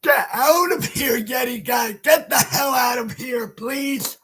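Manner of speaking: irritated, insistent send-off; angry outburst. Real, not acted. Horror fan telling Yeti guy to leave, angry. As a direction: snap at someone to get out, then ease off. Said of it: "I got all mad there and upset".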